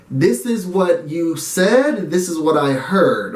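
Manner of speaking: "This is what you said" spoken very slowly; slow, deliberate. Shown as a demonstration. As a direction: lay it out slowly and carefully. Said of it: "I always try to work towards".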